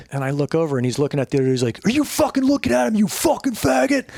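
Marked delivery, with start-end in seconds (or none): 1.9-4.1 high, aggressive mock threat; imitating angry Kurt. Narrator acting out Kurt snapping at a man in the gym, mock rage. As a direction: act out the crazy roommate picking a fight.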